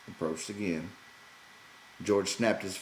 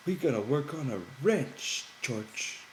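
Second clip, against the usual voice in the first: higher, a touch hopeful Lenny; 7 semitones higher than usual. A narrator's reading. Lenny asking George about the ranch, mildly hopeful. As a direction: ask it with a little hope.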